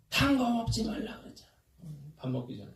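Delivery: mock scolding, pitched high then dropping; imitated angry yell. Retelling a video of a parent scolding a child, imitated angry yell. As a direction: act out a parent snapping in a video. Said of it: "막 소리를 지르고 애한테 막 화를".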